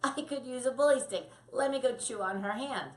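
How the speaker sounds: a hint of a sly puppy; scheming puppy. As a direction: plot it like a clever pup. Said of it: "they're gonna go".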